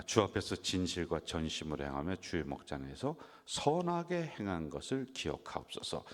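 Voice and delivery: measured, solemn reading of the verse; scripture reading. Acted. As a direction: read the verse out with reverence.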